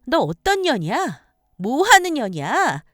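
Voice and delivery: loud, high, furious demand; enraged confrontation. Acted. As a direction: tear into a rival. Wife attacks the mistress.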